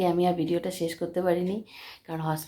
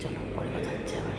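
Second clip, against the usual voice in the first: whispered goodbye; whispering; 8 dB quieter than usual. Real, not acted. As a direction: hush it so nobody hears. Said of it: "আমি খুব আস্তে আস্তে কথা বলছি".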